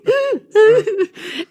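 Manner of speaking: high imitated sobs; loud fake crying; mock sobbing. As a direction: wail half-laughing. Imitates herself crying to the kids.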